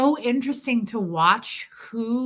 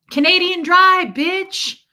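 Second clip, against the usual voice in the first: loud, higher hammed-up brag; mock boast shout; 8 semitones higher, 9 dB louder, slower than usual. Mocking bragging men, loud hammed-up boast. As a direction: yell it like a cocky bro.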